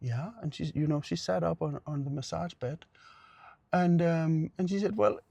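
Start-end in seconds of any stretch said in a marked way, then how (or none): 5.0-5.2 high, strained mock whimper from a hurting patient; hammed-up high-pitched complaint; imitating distressed patient. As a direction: act out cramping up in pain, pitch pushed way up. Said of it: "she started to do this".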